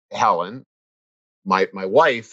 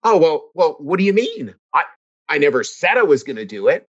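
defensive protest. Retold or imitated. Husband to wife over the coffee, a mock indignant whine. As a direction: protest like you've been wrongly accused. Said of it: "I would get".

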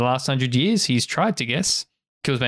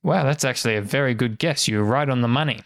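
understated mock amazement; sarcastic praise. Game master answers a player's wild guess, understated sarcasm. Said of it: "tell from my tone".

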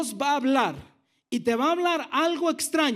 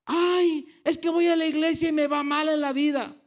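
mock complaint; 2 semitones higher than usual. Churchgoer blaming church for a bad life, mock complaint. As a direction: play a self-pitying churchgoer complaining. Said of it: "Y luego decimos".

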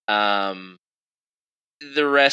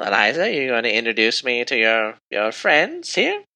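put-on high regal old lady; pitched-up royal voice with measured hesitations; elderly queen, inquisitive; 6 semitones higher than usual. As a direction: probe politely in a high queen voice.

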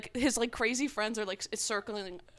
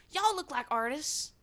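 raised, slower imitated New York accent; 6 semitones higher than usual. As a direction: put on a New Yorker's accent. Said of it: "he said it in a New York accent".

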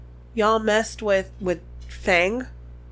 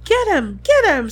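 louder, higher shrieked command; screaming; 7 semitones higher, 7 dB louder than usual. A narrator's reading. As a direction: scream the order. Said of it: "screamed Umbridge".

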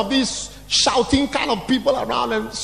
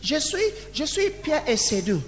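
halting, hammed-up French phrases, climbing in pitch; mock French practice; 5 semitones higher than usual. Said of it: "I want my child to learn how to speak French".

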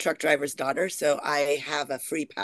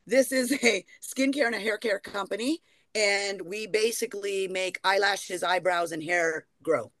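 sales pitch; 3 semitones higher than usual. Pretend. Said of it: "Shark Tank moment".

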